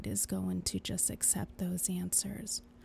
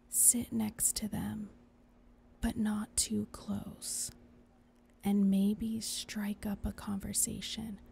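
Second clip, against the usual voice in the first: reassuring whisper. Acted. Angel soothing whisper.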